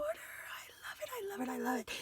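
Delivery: soft, breath-only delight; hushed gushing. Real, not acted. Crafter adoring the border, hushed and delighted. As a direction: repeat it quickly under your breath.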